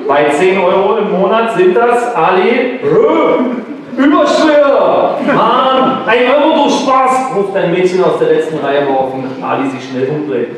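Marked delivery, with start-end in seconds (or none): 0.1-7.4 put-on high, drawn-out teen heckling; cheeky pupil. Girl in the last row teasing Ali, high and drawn out. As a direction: tease a classmate from the back row.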